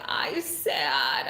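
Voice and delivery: mock pout, lightly childlike; pouting toddler. Aunt borrows her nephew's line to viewers, mock pout. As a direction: play at sulking like a little kid. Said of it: "sit here and pout and be like".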